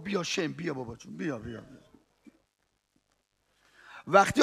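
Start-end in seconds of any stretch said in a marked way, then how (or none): 0.0-1.8 much softer, fading calls; tender quiet call. Acted. Hossein calls his son from the battlefield, soft and tender. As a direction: call the son gently, almost to nothing.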